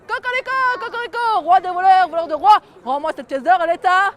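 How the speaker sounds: loud crowing demand; rooster crying out. Acted. The rooster shouts from atop the king's head, loud. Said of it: "il crie".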